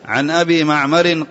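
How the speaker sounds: معمر read "ma'marin"; corrected nunated ending on معمر, "-rin"; معمر with tanween. Real, not acted. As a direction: close معمر on a genitive -in. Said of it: "لأنه معمر ما هو ممنوع من الصرف".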